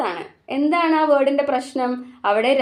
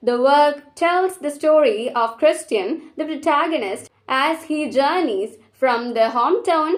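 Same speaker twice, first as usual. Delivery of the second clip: very slow, measured reading; slow dictation; much slower than usual. Acted. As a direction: read it like notes to copy down. Reads summary slowly.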